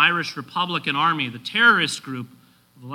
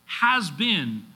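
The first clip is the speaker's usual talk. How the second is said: "Has been" set apart and weighted; stress on "has been"; 3 semitones higher than usual. Shown as a demonstration. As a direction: lean on "Has been" as its own phrase. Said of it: "perfect tense".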